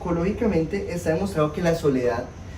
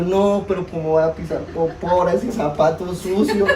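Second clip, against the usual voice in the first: laughing exasperation. Retold or imitated. Exasperated at stepping in poo.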